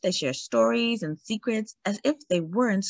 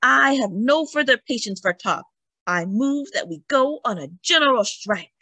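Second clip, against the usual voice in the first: rousing shout; 5 semitones higher than usual. Acted. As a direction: rouse the hall to a general strike. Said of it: "where she shouts in Yiddish".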